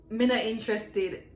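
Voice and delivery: Me not interested in Jamaican patois. Shown as a demonstration. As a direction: shut them out in patois. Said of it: "a way to shut people out".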